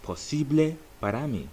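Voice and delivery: po-SEE-bleh PAH-rah MEE; Spanish phrase. Shown as a demonstration. Teacher models the phrase emphatically. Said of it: "it's going to be".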